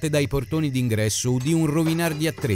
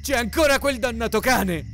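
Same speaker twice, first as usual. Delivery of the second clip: grido acuto d'allarme; urlo; 9 semitones higher than usual. A narrator's reading. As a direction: avvertire urlando. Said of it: "urlò Joshua". (urlo spaventato, voce alta)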